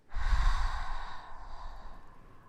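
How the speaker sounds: a slow, audible whispered out-breath; long exhale. Shown as a demonstration. Healer demonstrating the breath for the patient, slow exhale. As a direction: show the patient how to breathe out. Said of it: "take one more breath and exhale".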